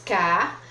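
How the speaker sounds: "Cabelos" in three separate syllables, ca, be, los. Shown as a demonstration. Teacher showing three syllables, "Cabelos" split ca, be, los. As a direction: count out "Cabelos" with a pause after each syllable. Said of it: "ela tem três sílabas".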